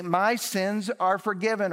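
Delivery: "My" hit high and loud, then falling; weight on "My" in "My sins are forgiven"; stress on my. Shown as a demonstration. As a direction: lean on "My" and let the rest fall. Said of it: "How can Jesus say".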